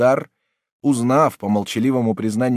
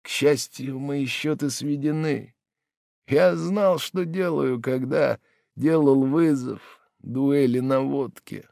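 bitter smile; 3 semitones higher, slower than usual. Acted. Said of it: "с горькой улыбкой".

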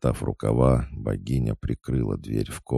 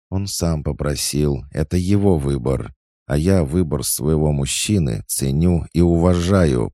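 growled; 5 semitones higher, 5 dB louder than usual. A narrator's reading. Oksana growling at Lucy about her man. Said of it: "прорычала Оксана".

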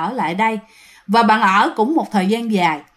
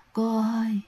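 eerie ghost call; 8 dB quieter than usual. Retold or imitated. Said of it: "cô mà cái giọng êm ... nó trầm mà nó vang".

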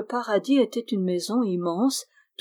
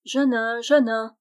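name called out a bit louder; calling voice; 3 semitones higher, 3 dB louder than usual. Acted. Dwarf startling Jeannin with a call. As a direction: call him by name from close by. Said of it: "dit tout auprès de lui une voix bien connue".

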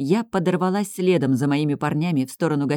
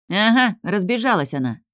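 higher, snarky scoff; mocking sneer; 5 semitones higher than usual. Fox mocking the big man's demand, sneering. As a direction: toss it off with a bared-teeth sneer. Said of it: "оскалился лис".

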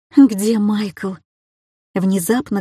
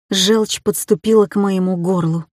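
plain reading voice

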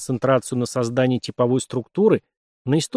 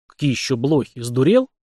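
genuinely puzzled, rising question; honestly taken aback; sincere surprise. Acted. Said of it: "искреннее удивление".

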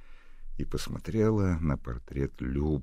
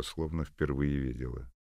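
usual speaking voice

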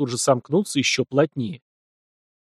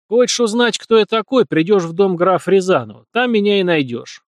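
scoffing snort; 6 semitones higher, 4 dB louder than usual. A narrator's reading. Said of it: "фыркнул Руслан".

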